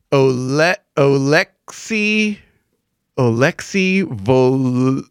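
very slow, halting syllable by syllable; drawn-out, tentative reading that breaks off; sounding it out. Real, not acted. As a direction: struggle through an unreadable name. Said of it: "trying to sound it out".

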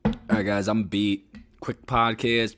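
suddenly loud and energetic; loud excited sign-off. Real, not acted. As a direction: burst into an upbeat outro.

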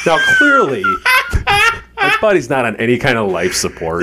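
helpless high laughter breaking into the words; laughing. Real, not acted. Storyteller explains there was no life support, laughing. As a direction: struggle to talk through a laughing fit.

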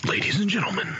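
grand announcer-style greeting; lightly voiced oil baron; Daniel Plainview voice. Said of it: "I'm just gonna be Daniel Plainview".

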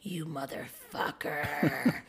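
very slow, low, drawn-out mock menace; retold triggered anger. Acting out her reaction to partner, slow low fury. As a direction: stretch each word out, low and soft. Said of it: "to trigger me and go".

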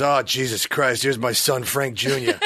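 a hint of an exasperated showbiz father; Frank Sinatra. Father announcing his son to the room, light impression. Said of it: "he's doing the whole Frank".

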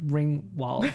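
Ringwald with a drawn-out New York vowel, Ringwald said like a New Yorker; New York accent. Shown as a demonstration. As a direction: Ringwald em sotaque nova-iorquino. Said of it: "that's my New York accent, you hear it?".

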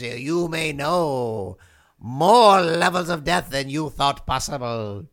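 low, ominous demon king voice; a hint of a theatrical death god; menacing demon king. Demon king menacing podcast guest.

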